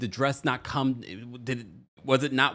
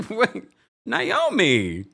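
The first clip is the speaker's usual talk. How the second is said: surprised; 5 dB louder, much slower than usual. Real, not acted. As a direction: call out her name in disbelief. Reacting to Naomi's post.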